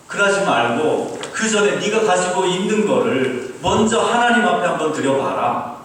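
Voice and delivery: put-on loud Busan-accented scolding, pitch swinging up; God in Busan dialect. God answering the complaining student, Busan-dialect scolding. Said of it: "하나님도 부산 사투리로 응답해 주시더라고요".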